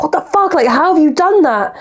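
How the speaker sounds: high-pitched imitation of disbelief; mock shocked outburst. Imitating Lucy seeing the wrecked car, high shocked disbelief. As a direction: voice jumping up, imitating an appalled friend. Friend's shocked reaction, acted.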